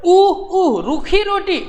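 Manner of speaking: put-on high, pouting child's whine; boy grumbling to his mother about dry bread, whining high; whiny child. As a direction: whine it like a sulky little boy. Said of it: "थोड़ा मुंह बनाकर बोला".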